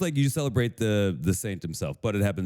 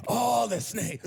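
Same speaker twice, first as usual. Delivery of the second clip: high put-on Chicago voice; broad mock Chicago, pitched way up; Chicago accent; 13 semitones higher, much slower than usual. Co-host as snake-banishing saint, high Chicago accent. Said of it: "you just became Chicagoan".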